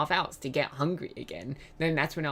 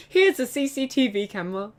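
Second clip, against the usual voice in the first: mock newsreader; 6 semitones higher than usual. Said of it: "Australian news".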